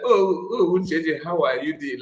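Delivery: a touch of put-on calm in the greeting; lightly voiced calm friend checking in; mock calm voice. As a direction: play it syrupy calm, half laughing.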